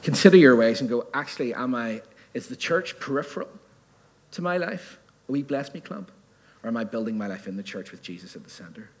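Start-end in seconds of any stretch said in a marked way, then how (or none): 1.1-8.9 softer, musing questions; acted self-questioning. Preacher voicing a listener considering their ways, soft searching questions. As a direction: wonder quietly, as if to yourself.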